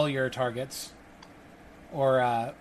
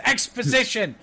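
higher, sudden shouted prompt; tiny inner voice; 7 semitones higher, 4 dB louder than usual. Acted. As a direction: pipe up as a nagging voice in the head. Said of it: "The tiny voice in the back of his head kicks him and says".

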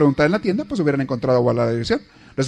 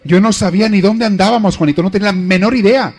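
louder, higher admiring praise for her husband; hammed-up grateful wife: Juanito, you saved us; gushing wife; 4 semitones higher, 4 dB louder than usual.

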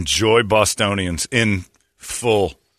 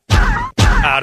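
mock shout; 6 dB louder than usual. Shouted joke line in bit.

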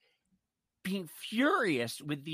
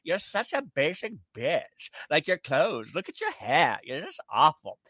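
a light imitation of Anna's strange fake European accent; Anna's odd accent. Mimicking the TV con woman's insults in her fake European accent. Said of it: "she talks in this accent like you've never heard before".

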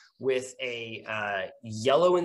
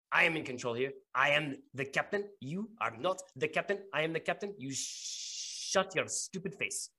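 contained angry rebuke; 4 semitones higher, 4 dB quieter than usual. Acted. Flushed captain reasserting command over her guard, contained anger. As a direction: put the subordinate in their place without raising your voice.

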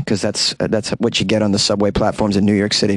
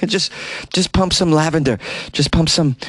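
laughing, mock-breezy suggestion; sarcastic; 4 semitones higher than usual. Mocking the rail company's fix, a sarcastic laughing suggestion. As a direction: toss it off with a snicker.

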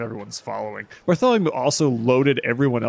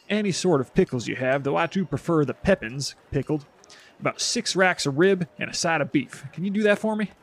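charming haggler; 3 semitones higher than usual. Acted. Bartholomew orders from vendor.

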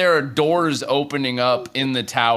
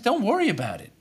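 Ren warning fast; 4 dB quieter, faster than usual. Acted. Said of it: "He says".

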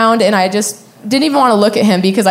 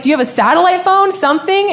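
high, hurried pleading question; retold urgent plea; 9 semitones higher than usual. Runner begging the couple for a phone, retold urgency. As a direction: ask desperately, rising in pitch.

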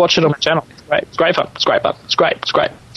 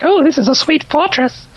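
mock delight; 13 semitones higher than usual. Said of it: "you're like".

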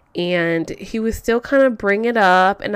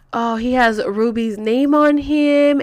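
slow, stretched-out recital; mock letter-reading; 3 semitones higher, slower than usual. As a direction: drag the words as if reading aloud.

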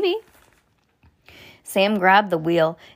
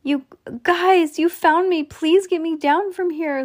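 high, desperate plea; shrieking for help; 10 semitones higher, 3 dB louder than usual. A narrator's reading. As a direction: beg to be rescued, pitched up. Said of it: "Lucy shrieked".

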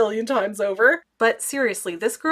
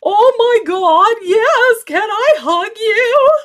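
very high, loud, slow gushing; overjoyed squeal; 12 semitones higher, 8 dB louder, slower than usual. Retold or imitated. Vlogger gushing at the young fan, high and squealing. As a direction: gush like meeting your idol.

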